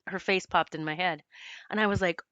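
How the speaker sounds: ordinary delivery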